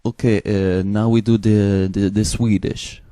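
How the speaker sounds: lightly put-on Eastern European accent. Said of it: "I take Eastern European accent".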